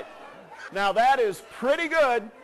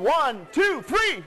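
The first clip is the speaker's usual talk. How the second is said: excited countdown; 3 semitones higher, much slower than usual. Real, not acted. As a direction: build the count up to a big cheer. Count-in for the crowd's cheer.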